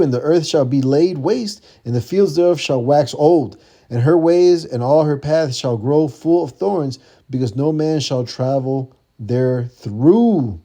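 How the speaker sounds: slow, weighty reading of the verse; solemn scripture reading. Acted. Preacher reading verse thirty-two to the brothers, slow and solemn. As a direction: let each clause land slowly.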